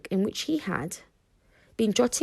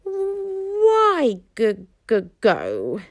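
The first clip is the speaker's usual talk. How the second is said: high squeaky stammering dragon cry; little dragon shouting; 5 semitones higher, 4 dB louder, much slower than usual. A narrator's reading. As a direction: stammer it out like a small stubborn dragon. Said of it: "shouted Toothless".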